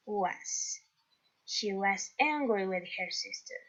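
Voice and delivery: slow, careful English sentence; teacher reading the answer to the class slowly; slow model reading. Shown as a demonstration. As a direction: read the answer slowly for learners. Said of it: "teacher reads completed answer".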